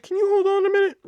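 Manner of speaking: high, bright fake-polite ask; mock chirpy clerk. Clerk sweetly putting caller on hold, pitched high. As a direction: sing it sweetly to dump the caller.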